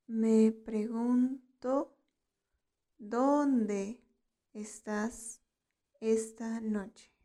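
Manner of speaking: "Me pregunto. ¿Dónde estás esta noche?" drawn out, with pauses between phrases; slow teaching model. Shown as a demonstration. Teacher models "Me pregunto. ¿Dónde estás esta noche?" for learners, slowly in pieces.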